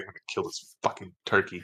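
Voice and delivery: muttering under breath. Voicing a character angry at a griffin: mumbling under his breath. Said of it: "Dirt's mumbling under his breath".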